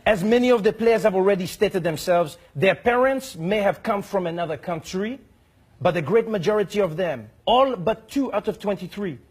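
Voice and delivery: a hint of a stiff French envoy; mock official letter voice. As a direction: read it like a prim diplomat. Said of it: "He says".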